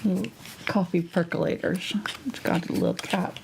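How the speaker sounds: talking around a brush in the mouth; words muffled by a brush held in the teeth; mouth full. Real, not acted. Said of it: "I'm holding my brush in my mouth".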